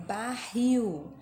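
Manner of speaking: "barril" with a loud final syllable; stress on final syllable. Shown as a demonstration. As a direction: lean hard on the end of "barril". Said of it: "a última sílaba que é tônica".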